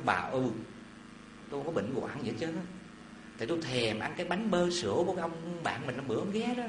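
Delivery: husband whispers a secret confession to his wife in a lightly hushed voice; said quietly. Acted. Sick husband confides in his wife, a little hushed. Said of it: "ông nói nhỏ một câu".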